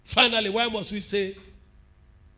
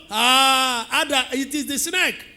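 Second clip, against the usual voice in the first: Eve blaming the snake; 3 semitones higher, 6 dB louder, slower than usual. Retold or imitated. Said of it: "reminding me about the snake".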